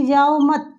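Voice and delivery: जाओ मत run together as one phrase; no break between जाओ and मत; मत joined to जाओ. Shown as a demonstration. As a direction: say जाओ मत as a single unit. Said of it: "श्रोता को समझ में आ रहा है".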